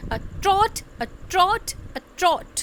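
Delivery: a unstressed, each trot stressed. Giving an example of metre, stress each trot, a unstressed. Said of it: "आ अनस्ट्रेस है, ट्रॉट stressed है".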